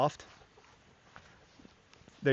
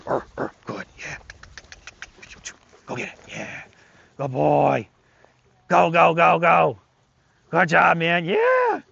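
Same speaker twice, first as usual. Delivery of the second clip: louder, higher, hyped-up praise; excited play praise; 5 semitones higher, 7 dB louder, slower than usual. Shown as a demonstration. Trainer hyping up the dog during a tug game, loud and excited. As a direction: pump the dog up as you play. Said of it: "We can play".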